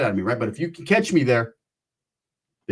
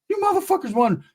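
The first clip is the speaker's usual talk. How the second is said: squeaky high shocked yelp; disbelief. Retold or imitated. Teller seeing his friends hit a jackpot, high shocked yelp. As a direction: shriek it in disbelief. Teller sees the big win.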